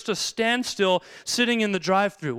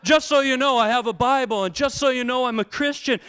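smug showing off; 5 semitones higher, 4 dB louder than usual. Retold or imitated. Mocking showy Christian on bus.

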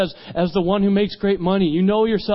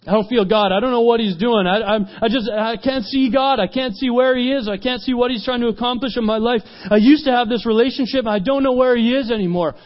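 distressed; 5 semitones higher than usual. Retold or imitated. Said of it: "he's crying".

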